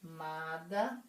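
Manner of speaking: "amada" split slowly as a - mada; "amada" drawn out with its first vowel apart; separated syllables. Shown as a demonstration. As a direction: hold the first "a", pause, then "mada" in "amada". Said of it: "que eu separaria".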